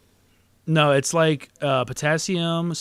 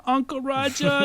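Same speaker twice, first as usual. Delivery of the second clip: Uncle Roger said high and slow in his put-on Asian uncle accent; mock Uncle Roger accent; 12 semitones higher, slower than usual. Mocking the comedian's catchphrase in his Asian uncle accent. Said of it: "That's an accent he just puts on".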